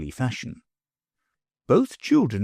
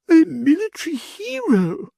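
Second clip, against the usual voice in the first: higher, mock admiring; lady's voice; 4 dB louder than usual. A narrator's reading. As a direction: flatter the fat baron. Lady flatters baron.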